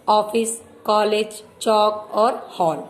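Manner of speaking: slow ऑफिस, कॉलेज, हॉल with an open English 'aw' vowel; English ऑ sound. Shown as a demonstration. Teacher demonstrating the English-borrowed ऑ to children, slowly. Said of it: "अंग्रेजी भाषा के ओ से ली गई है".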